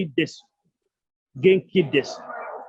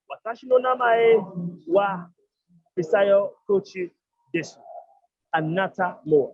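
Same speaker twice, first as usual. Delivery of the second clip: slow model sentence. Shown as a demonstration. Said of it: "So you have".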